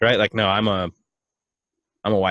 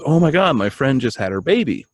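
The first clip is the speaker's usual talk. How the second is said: excited news; 3 semitones higher, 5 dB louder than usual. Retold or imitated. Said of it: "She goes".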